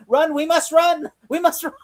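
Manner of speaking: overdramatic call to run, laughing at the end; mock panicked run. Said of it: "they're like".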